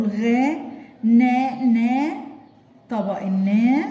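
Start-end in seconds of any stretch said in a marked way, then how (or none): 0.0-2.1 "غا، نا، نا" said as separate syllables, "نا" stressed; sounding out syllables. Shown as a demonstration. Teacher sounding out "غنم" for a child. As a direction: spell it out syllable by syllable. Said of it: "انا بقول".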